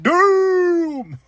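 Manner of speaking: high, loud mock panic; mock alarm. Reacting to the powerbomb, loud mock panic. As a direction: call for help in fake horror. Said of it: "I was like".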